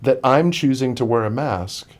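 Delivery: retold disbelief, pressing the questions; baffled indignation. Runner wondering about the yelling stranger, retold baffled indignation.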